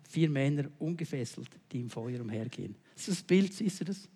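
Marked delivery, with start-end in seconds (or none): 0.1-2.7 low, soft, reflective reread; quiet rereading. Shown as a demonstration. Preacher quietly rereads verse twenty-five to the congregation, soft. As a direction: let it sink in, much softer. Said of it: "noch einmal Vers fünfundzwanzig".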